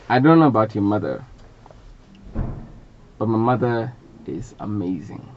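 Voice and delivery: measured stage recitation with long pauses; spoken-word poem. Acted. Poet to a live audience about his mother, spoken-word recitation. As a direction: deliver it line by line, letting each pause hang.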